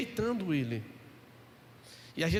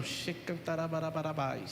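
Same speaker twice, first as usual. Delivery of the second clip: mock speaking in tongues; 4 semitones lower, 4 dB quieter than usual. Imitating praying in tongues.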